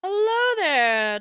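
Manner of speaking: high, drawn-out singsong hello; excited greeting. Real, not acted. Streamer greeting a new follower, excited and high.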